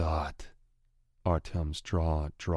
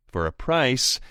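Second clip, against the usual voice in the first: higher, louder sly bargaining; taunting rival voice; 8 semitones higher, 7 dB louder than usual. Acted. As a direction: dangle the offer slyly. Anton bargains.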